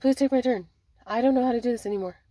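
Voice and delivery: a touch of tearful urgency; plead, as if close to crying. Acted. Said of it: "They're crying".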